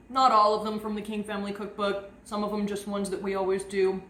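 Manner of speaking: talking through a bite of cookie; words round a mouthful of cookie; mouth full. Real, not acted. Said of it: "I'm talking with my mouth full".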